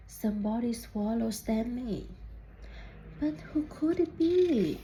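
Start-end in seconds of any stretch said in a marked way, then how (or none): 3.2-4.8 suspense question. A narrator's reading. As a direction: tease the mystery. Refrain of read-aloud story.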